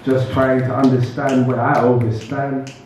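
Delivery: measured spoken-word delivery, spaced by pauses; poetry recital. Acted. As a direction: recite line by line, letting each phrase land. Recites own poem to audience.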